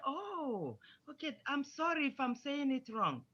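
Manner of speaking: soft, obliging apology; apologetic teacher. Shown as a demonstration. Miss Smith apologising to the pupil, softly apologetic. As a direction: gently accept the correction as the teacher. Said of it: "Miss Smith will say".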